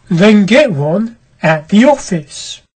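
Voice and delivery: slow, curt doorkeeper's brush-off; a doorman turning her away, slowly; stern doorman voice; gruff doorkeeper. Acted.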